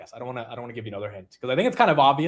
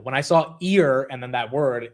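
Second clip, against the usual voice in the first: usual speaking voice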